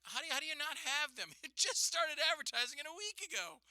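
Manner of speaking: exasperated customer to the cashier. Retold or imitated. Retold arguing with cashier.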